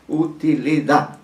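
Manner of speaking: Utilidad, slow, with the weight on the final syllable -dad; stress on the last syllable. Shown as a demonstration. Teacher showing the class Utilidad is stressed on the final syllable. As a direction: spell out Utilidad slowly, landing on -dad. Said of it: "es una palabra aguda".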